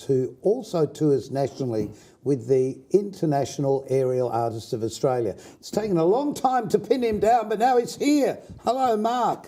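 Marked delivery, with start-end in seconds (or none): 5.6-9.5 lifted radio host intro. Acted. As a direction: announce the guest warmly. Presenter welcome.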